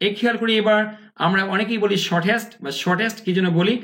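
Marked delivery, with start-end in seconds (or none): 2.1-3.2 "শর্টেস্ট" with a hard, clear T; common learner pronunciation. Shown as a demonstration. Teacher quoting what many learners say, "শর্টেস্ট" with full T. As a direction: sound out the T in "শর্টেস্ট". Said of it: "American ইংলিশটা এরকম হয় না".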